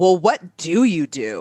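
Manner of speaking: mock severe, stern, demanding, challenging tone. Retelling a client's challenging question on a phone call: imitating a stern tone. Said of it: "stern as ever, she says".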